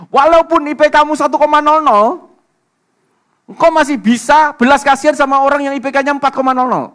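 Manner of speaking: very loud, high sustained shout from the pulpit; shouted, high-pitched sermon climax; full-force preaching. Real, not acted. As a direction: proclaim it to the whole congregation.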